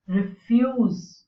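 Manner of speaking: re-FUSE, first syllable light; second-syllable stress. Shown as a demonstration. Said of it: "the second syllable is stressed".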